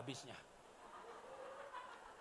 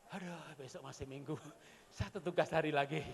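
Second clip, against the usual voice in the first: sedikit keluhan lelah; mengeluh lelah; 4 semitones lower than usual. Retold or imitated. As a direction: desah pasrah. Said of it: "sambil berkata". (keluhan lelah anak)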